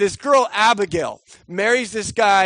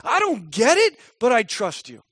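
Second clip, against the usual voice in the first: higher, earnest trusting prayer; 6 semitones higher than usual. Retold or imitated. Voicing the right prayer to God, higher earnest prayer. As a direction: pray it up, hopeful. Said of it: "should be".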